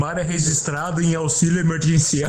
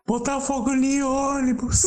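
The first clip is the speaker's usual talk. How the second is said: laughing; 9 semitones higher, 3 dB quieter than usual. Retold or imitated. Mocking the clip, laughing.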